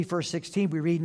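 normal talking voice

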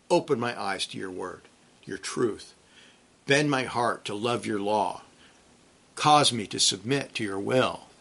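soft, slow, murmured prayer; softly as if praying alone; hushed prayer. Acted. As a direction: pray it under your breath, slowly and humbly.

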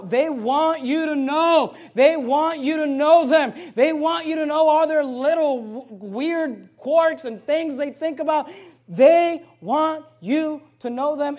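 loud, slow, insistent preaching; full-force pulpit preaching. Acted. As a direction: hammer home that they want to be known.

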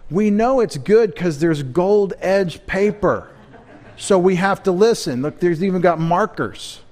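playful scoffing awe; mock reverence. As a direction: send up the gold-edged Bible with a laugh. Mocking fancy Bible bindings.

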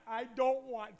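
a loud balking refusal; Moses refusing. Acted. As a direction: refuse like a scared kid.

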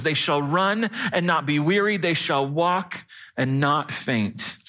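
measured, solemn scripture reading. Acted. Pastor reading God's word to the congregation, measured scripture reading. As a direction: read it out deliberately, lingering on the ends of phrases.

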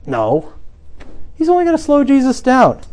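usual speaking voice

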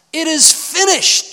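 high, loud, slow cry; cried out. Acted. Jesus dying on the cross, loud high cry. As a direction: let it ring out. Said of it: "he cried out".

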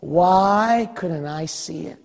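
slow, drawn-out acted regret; mild tearful lament. Believer weeping at the judgment seat, understated lament. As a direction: lament it slowly, a touch sorrowful. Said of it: "you cry with tears".

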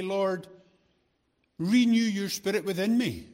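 loud fervent prayer. Pretend. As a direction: proclaim "Lord, renew your spirit within me" with fervour. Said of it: "daily say".

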